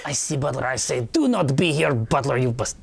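put-on New York accent. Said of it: "with a thick New York accent".

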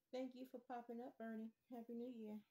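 loud friendly call to a bird; coaxing a wild bird. Real, not acted. Calling thanks to the bird.

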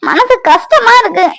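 slow, high pained sigh of hurt. Acted. Wife hurt by husband's coldness, slow and pained. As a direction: let the hurt drag out.

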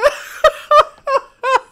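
high laughing fit; loud high laugh. Real, not acted. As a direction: crack up loudly. Cracking up.

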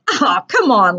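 lightly amused bully tease; teasing, understated laugh in the voice; laughing taunt. Acted. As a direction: coax mockingly with a touch of laughter. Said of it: "laughed Mitchell".

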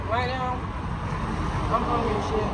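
talking while eating; biting into food; mouth full of pizza. Real, not acted. Seen 2: Backlit speaker holds pizza slice at mouth, biting, throughout.

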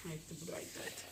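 very soft, low reassurance; placating. Real, not acted. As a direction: let it go gently, almost under the breath. Placating a child refusing school.

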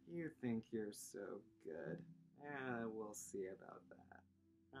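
mock challenge. Mock rivalry with pupils.

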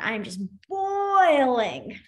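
drawn-out BOILING, mock fuming; demonstrating being boiling mad; acted boiling anger. Shown as a demonstration. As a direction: stretch out boiling in pretend anger. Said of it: "I'm so mad, I'm boiling".

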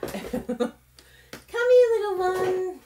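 high, laughing coo to a tiny object; cooing baby talk. Pretend. Crafter calling her lost die, in a laughing, high coo. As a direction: coax the little die out like a pet.

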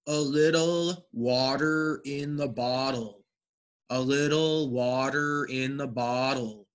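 measured model, D sound in "water" and "bottle". Shown as a demonstration. Teacher models sentence two for the class, T as D. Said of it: "this is a D sound".

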